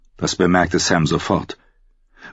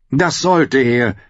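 slow, higher courtier voice; oily agreement; 7 semitones higher, 3 dB louder, slower than usual. A narrator's reading. Janos agrees with the king, oily and slow. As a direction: agree eagerly.

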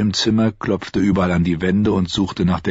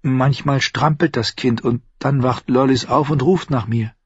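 somewhat higher voice of a lover; lightly voiced woman; 6 semitones higher than usual. Shay telling her lover about the child at night, lightly voiced higher. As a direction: speak as the woman confiding in him.

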